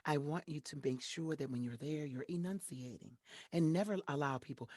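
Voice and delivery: a hint of a deep, measured mentor; mild low mentor voice, enunciating; mentor's voice. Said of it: "she talks like this".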